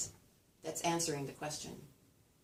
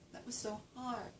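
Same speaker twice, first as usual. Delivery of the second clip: exam complaint; 5 semitones higher, 10 dB quieter than usual. Retold or imitated. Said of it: "They take an exam".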